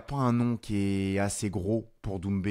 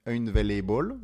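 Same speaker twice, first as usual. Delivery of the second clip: the English word unavailable said the English way, in an English accent; a French speaker's quick English accent on unavailable; 3 dB louder than usual. Real, not acted. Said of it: "pour mon accent anglais".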